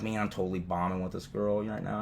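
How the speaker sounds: low, soft aside to himself; inner thought. Retold or imitated. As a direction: mumble it privately, low and soft. Retelling his own low thought.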